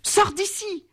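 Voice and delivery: high, sharp giant outcry; giant crying out. A narrator's reading. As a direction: cry it out as the giant. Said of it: "s'écria le géant".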